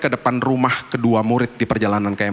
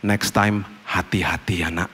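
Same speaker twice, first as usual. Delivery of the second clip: tender warning; 2 semitones lower, 4 dB quieter, slower than usual. Retold or imitated. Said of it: "saya bilang gini".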